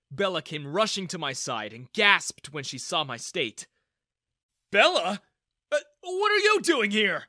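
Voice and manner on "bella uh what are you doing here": loud, much higher startled question; startled surprise. Acted. Father caught by his daughter, startled. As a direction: caught off guard, blurt it out. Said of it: "Daniel asked in surprise".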